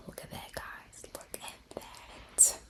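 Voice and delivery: barely audible, slowing to a crawl; hushed, drawn-out marvelling; amazed whisper. Real, not acted. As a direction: whisper it very slowly to the viewers.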